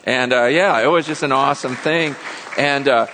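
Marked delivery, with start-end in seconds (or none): none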